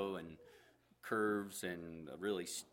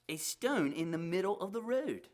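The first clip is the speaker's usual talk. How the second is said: high, loud shepherd exclaiming; surprised; 11 semitones higher, 6 dB louder than usual. Acted. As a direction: point it out, amazed. Shepherd startled at stone.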